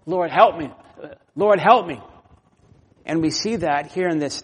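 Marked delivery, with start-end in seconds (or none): 0.1-2.0 rising urgent plea for help; pleading cry. Acted. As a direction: cry to God, getting louder. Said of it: "we cry out".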